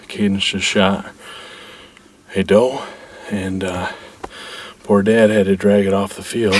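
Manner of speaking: winded after dragging a deer; out of breath. Real, not acted. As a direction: talk while catching your breath. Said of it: "so I'm a little bit out of breath".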